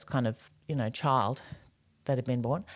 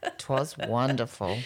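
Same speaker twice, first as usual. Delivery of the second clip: laughing; 4 semitones lower, slower than usual. Shown as a demonstration. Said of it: "That's cute".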